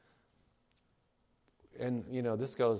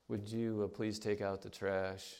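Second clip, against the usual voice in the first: kind request; 2 semitones lower, 5 dB quieter than usual. Retold or imitated. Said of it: "nothing is said kindly".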